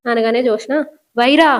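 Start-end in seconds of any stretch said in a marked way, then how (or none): 1.2-1.5 calling the name out, louder. Retold or imitated. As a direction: yell his name in anger. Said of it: "అని గట్టిగా అంటది". (గట్టిగా పేరు పిలవడం)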